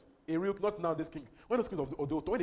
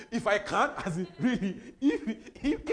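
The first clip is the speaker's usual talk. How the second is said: laughing; 3 semitones higher, 6 dB louder than usual. Retold or imitated. Preacher mocks doubting answer.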